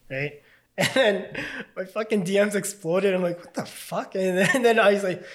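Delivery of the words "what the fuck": whispered disbelief; shocked whisper. Retold or imitated. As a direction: breathe it out in shock. Reacting to exploding DMs.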